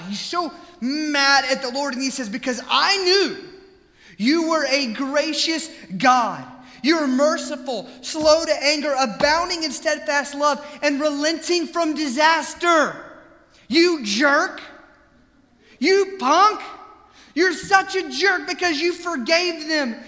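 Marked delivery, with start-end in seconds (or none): 2.3-13.0 louder, bitter complaint to God; angry Jonah. Retold or imitated. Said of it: "Hear this angry insult he gives God". 13.7-20.0 loud, higher, scornful rant at God; angry insult. Retold or imitated. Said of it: "angry insult he gives God".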